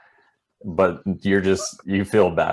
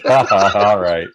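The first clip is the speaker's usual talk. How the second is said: mock laugh; 8 dB louder than usual. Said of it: "You're like".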